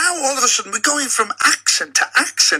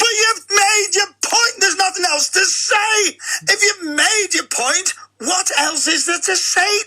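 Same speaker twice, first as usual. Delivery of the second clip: higher, exasperated and insistent; raised voice; 6 semitones higher than usual. Real, not acted. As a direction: push the point with a raised voice. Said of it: "no need to raise up".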